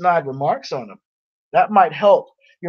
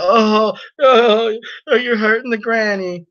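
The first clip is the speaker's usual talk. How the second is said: mock whiny complaint; 4 semitones higher, 3 dB louder than usual. Mocking the heckler's complaint.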